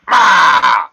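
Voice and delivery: loud high call. Acted. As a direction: shout it to find her. Calling out to Mud.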